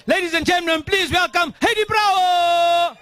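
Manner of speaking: announcer introduction. Real, not acted. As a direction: bring her on like a ring announcer. MC announcing the speaker.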